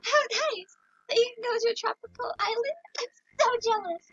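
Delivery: Kelly voice. Acted. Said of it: "I'm talking like Kelly".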